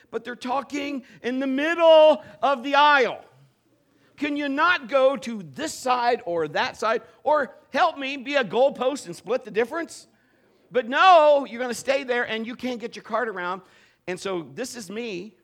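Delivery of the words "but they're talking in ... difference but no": louder, higher comic exasperation; exasperated rant. Acted. Pastor venting to the congregation about aisle blockers, loud and exasperated. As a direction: vent at blocked-aisle shoppers, building to an outburst.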